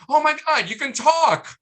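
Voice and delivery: loud, high-pitched delighted outcry; excited exclamation. Retold or imitated. Wife to the husband who just stubbed his toe, excited outcry. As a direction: burst out in joyful disbelief, voice way up. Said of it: "No, it's like".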